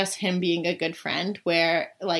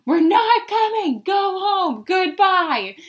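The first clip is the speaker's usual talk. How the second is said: high, loud, bossy tipsy voice; drunk friend; 11 semitones higher, 6 dB louder, slower than usual. Retold or imitated. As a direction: brush him off like a drunk girlfriend. Drunk friend grabs the phone.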